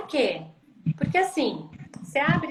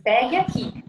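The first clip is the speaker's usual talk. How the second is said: "Pegue aqui" said a bit louder, rising at "aqui"; encouraging instruction; 2 semitones higher, 4 dB louder than usual. Shown as a demonstration. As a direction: invite the child, "Pegue aqui" with a lifting end. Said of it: "Você diz". ("Pegue aqui" com tom convidativo e final subindo)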